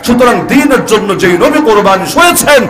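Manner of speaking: rising fervent sermon cadence; preacher to his audience, defiant and fervent; defiant preaching. Acted. Fiery defiant preaching build.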